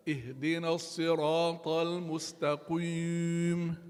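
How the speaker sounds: "المستقيم" recited with the mouth mis-shaped on the i; wrong kasra recitation. Shown as a demonstration. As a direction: recite with a deliberate vowel error. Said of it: "What is wrong?".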